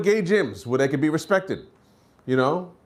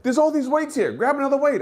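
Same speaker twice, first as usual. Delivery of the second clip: dismissive gym guy; 9 semitones higher than usual. Retold or imitated. Rude gym guy's reply.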